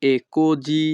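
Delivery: così said with the si sounding like zi; così pronounced kozi, s voiced; Italian pronunciation. Shown as a demonstration. Teacher shows students how così sounds, si voiced as zi. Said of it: "এখানে এসআই এর উচ্চারণ হবে জি".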